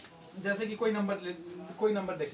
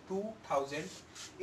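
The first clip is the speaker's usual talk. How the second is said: slow reading demo; 5 dB quieter, much slower than usual. Shown as a demonstration. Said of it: "तो इसको पढ़ेंगे ऐसे".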